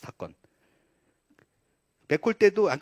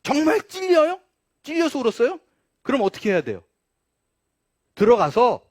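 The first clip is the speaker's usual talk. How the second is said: loud, high challenge to the listeners; indignant preaching; 8 semitones higher, 9 dB louder than usual. Real, not acted. Preacher challenging why Peter wept, indignant. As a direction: press each question hard.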